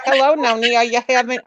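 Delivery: playful New York accent impression. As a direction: mimic a New Yorker's morning hello. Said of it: "That's how she talks".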